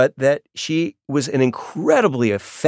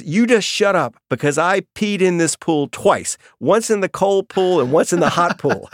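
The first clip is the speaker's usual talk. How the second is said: put-on defiant child; 7 semitones higher than usual. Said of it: "And she says".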